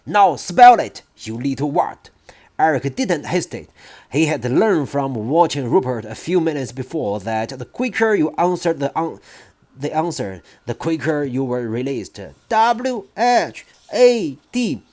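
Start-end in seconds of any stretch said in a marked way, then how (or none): 0.1-2.1 louder shouted order; shouting. Acted. Trunchbull shouts at boy held by ears, loud command. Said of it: "The Trunchbull was shouting". 12.5-14.8 higher, slow squealed spelling. Acted. Boy held by ears squeals spelling to headmistress, high squeal. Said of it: "he squealed".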